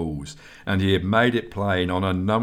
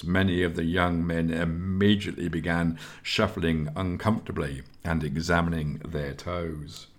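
usual speaking voice

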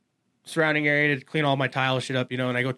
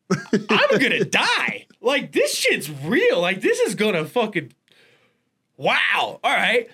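mock dread; 6 semitones higher, slower than usual. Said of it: "I'm just like".

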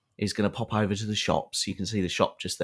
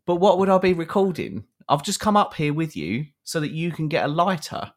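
incredulous protest; 6 semitones higher than usual. Retold or imitated.

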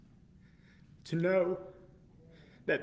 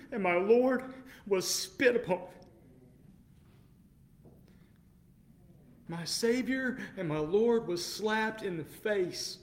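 impassioned preaching; 5 semitones higher than usual. Real, not acted. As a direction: preach it with building passion.

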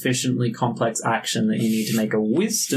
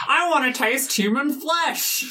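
high, eerie little voice; a high creepy tiny voice; creepy dagger voice; 12 semitones higher than usual. Acted. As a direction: relish the words menacingly.

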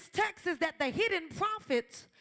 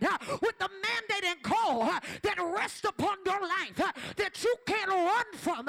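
driving preacher cadence, line by line; rally the room with conviction; booming motivational speech; 2 semitones higher than usual. Acted. Preaching about calling and purpose.

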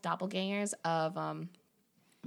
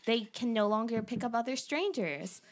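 put-on valley girl; 4 semitones higher than usual. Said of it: "she talks like a dumb blonde stereotype".

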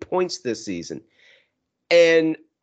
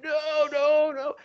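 mock despair; 13 semitones higher, slower than usual. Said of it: "And I was like".

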